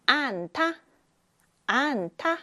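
안타 said slowly as an-ta; pronunciation demo. Shown as a demonstration. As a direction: sound out 안타 for the class. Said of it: "안타는 이렇게 소리가 납니다".

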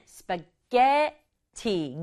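스파게티 with a strong 게; stress on 게. Shown as a demonstration. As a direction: lean on the 게 in 스파게티. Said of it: "게에 강조해 볼게요". (스파게티의 게를 강하게)

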